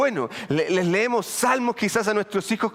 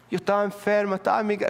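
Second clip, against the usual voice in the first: put-on failed Puerto Rican accent; faster than usual. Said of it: "siempre me sale el colombiano, no me sale el puertorriqueño".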